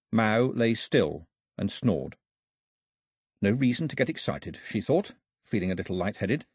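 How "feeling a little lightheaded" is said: ordinary delivery, nothing marked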